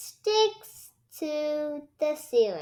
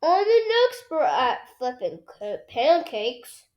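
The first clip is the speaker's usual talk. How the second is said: a hint of a proud dad; proud dad bragging lightly; lightly voiced Daddy Pig; 5 dB louder than usual. A narrator's reading. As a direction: boast like a confident dad. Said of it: "says Daddy Pig".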